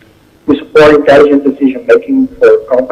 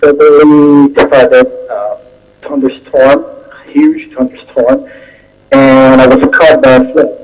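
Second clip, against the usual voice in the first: muffled. Real, not acted. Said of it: "Your sound is a little muffled".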